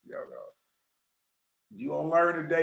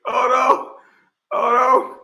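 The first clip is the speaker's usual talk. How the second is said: laughing stop; 8 semitones higher, 7 dB louder than usual. Real, not acted. Laughing, trying to stop the clip.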